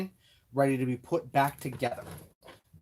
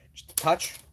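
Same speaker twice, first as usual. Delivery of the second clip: whispering; 3 semitones higher, 3 dB louder than usual. Real, not acted. Dabbing on a little Loctite.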